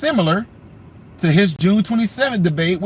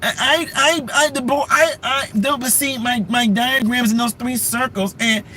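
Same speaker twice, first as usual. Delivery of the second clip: mock flustered stammer; 3 semitones higher than usual. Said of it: "mocking Kamala flustered".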